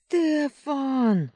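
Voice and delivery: high, loud desperate scream; desperate wail. A narrator's reading. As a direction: wail his name in despair. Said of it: "отчаянный вопль Луны".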